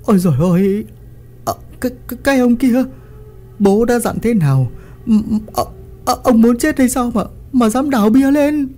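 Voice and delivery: high, frantic, stammering alarm; panicked cry. Acted. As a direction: blurt it out in a panic at the husband. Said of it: "bà hoảng hốt kêu lên". (hoảng hốt kêu lên, giọng cao the thé)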